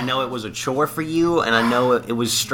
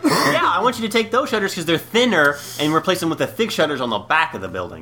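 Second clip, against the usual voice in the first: raised, laughing bewildered worker voice; mock confused worker; 8 semitones higher than usual. Cohost pretends to be a duped worker, laughing. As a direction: play a baffled worker full of questions.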